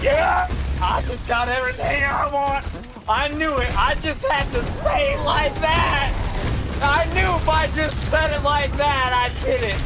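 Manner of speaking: mock triumph. Manipulator who got everything, crowing in triumph.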